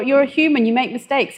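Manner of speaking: normal talking voice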